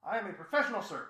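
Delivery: a light squeaky grumble; hammed-up trash-pile creature; grumbly squeaky trash voice. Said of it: "the grumbly, squeaky voice of the pile".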